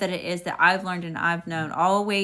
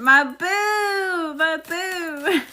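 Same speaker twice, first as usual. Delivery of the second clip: mock crying; 10 semitones higher, 4 dB louder, much slower than usual. Real, not acted. Gushing over a viewer's comment.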